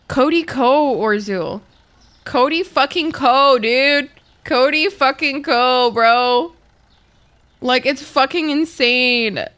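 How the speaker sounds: loud, slow, outraged name-calling; outraged yelling. Real, not acted. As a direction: yell the name in disbelief. Ranting about the scandal to chat.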